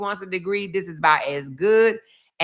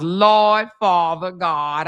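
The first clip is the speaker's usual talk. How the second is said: exasperated cry; 5 dB louder, much slower than usual. Real, not acted. Exasperated exclamation.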